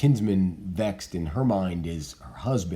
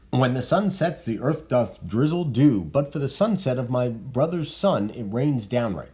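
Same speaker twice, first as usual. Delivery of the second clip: reading Lord Capulet; 4 semitones higher, 4 dB louder than usual. Acted.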